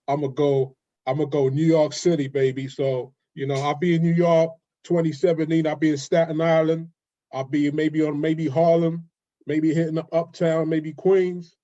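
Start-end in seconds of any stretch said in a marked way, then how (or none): 1.5-11.5 put-on New York accent; American accent. London guest showing the host his best American accent, put-on New York accent. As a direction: play a New Yorker listing the boroughs, American accent. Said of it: "your best American accent".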